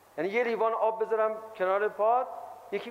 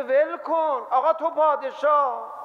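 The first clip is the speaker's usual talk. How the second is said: mock inner voice; 7 semitones higher, 5 dB louder, slower than usual. Ego voice flattering itself.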